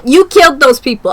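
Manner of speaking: real heated accusation of the character; loud accusation. Real, not acted. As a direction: hammer "killed" home.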